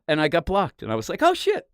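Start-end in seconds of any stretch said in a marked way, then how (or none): 1.2-1.7 mock surprise. Reacts to getting blocked.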